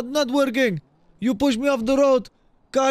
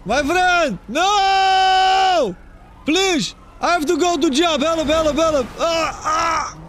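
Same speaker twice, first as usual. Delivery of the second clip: hammed-up panic; 5 semitones higher, much slower than usual. Roleplayer begging his friend not to leave, mock panic. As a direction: beg for help in mock panic.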